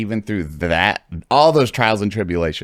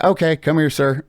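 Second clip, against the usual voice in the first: higher officer voice calling him over; a stern TSA officer; 10 semitones higher, 4 dB louder than usual. Retold or imitated. TSA officer pulls him aside.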